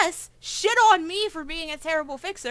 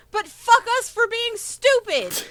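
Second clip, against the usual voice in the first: louder, higher, drawn-out self-mocking jab; exasperated outburst; 5 semitones higher, 3 dB louder, slower than usual. Real, not acted. Player venting to the table, slow exasperated jab.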